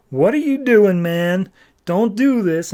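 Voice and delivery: high pleading little cat; a pet cat begging in a high voice; squeaky cat voice. Acted. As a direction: play the cat, high and urgent. Socks pleads again.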